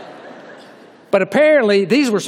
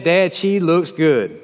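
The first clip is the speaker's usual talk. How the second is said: slow, drawn-out admiring voice; lightly voiced love-struck Samson; voicing Samson; much slower than usual. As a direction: savor each word like a smitten young man. Samson voiced lusting to his dad.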